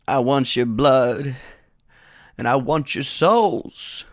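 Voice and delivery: slow, drawn-out villain threat; menacing Ringo. Acted. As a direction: savor each word slowly like a drunk outlaw. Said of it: "And Ring Dink responds".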